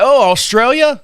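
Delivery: playing dumb about the country; surprised question. Surprised mock confusion to the neighbor. Mishearing Austria.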